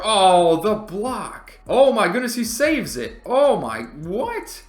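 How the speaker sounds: high, loud shouts of disbelief; amazed shout. Real, not acted. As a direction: yell like you can't believe the play. Amazed at a saving block.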